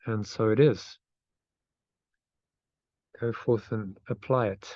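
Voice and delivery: meditative phrase-by-phrase reading, long pauses; slow affirmation reading. Real, not acted. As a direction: lead a repeat-after-me affirmation, unhurried. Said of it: "so I'll read it slowly".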